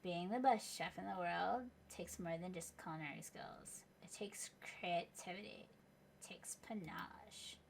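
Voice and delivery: hushed, secretive narrator whisper; dramatic whisper. A narrator's reading. Narrator teasing the players with a whispered intro. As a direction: whisper it like a trailer voice-over.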